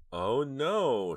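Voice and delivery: high, loud wail of dismay; drawn-out cry of shock; horrified moan. A narrator's reading. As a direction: moan it out in horror, pitched right up. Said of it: "her voice a faint moan".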